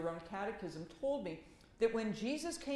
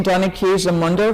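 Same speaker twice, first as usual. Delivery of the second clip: bad Italian accent; 22 dB louder than usual. Shown as a demonstration. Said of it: "That's a terrible accent".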